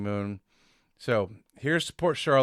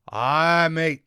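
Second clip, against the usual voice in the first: put-on Scottish driver's accent, a touch louder; imitating the Scottish driver, lightly; 3 semitones higher, 7 dB louder, slower than usual. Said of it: "And he goes".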